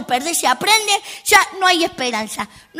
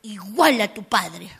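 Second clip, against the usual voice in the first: cutting remark; 5 semitones lower, slower than usual. Retold or imitated. Mother's cutting remark retold.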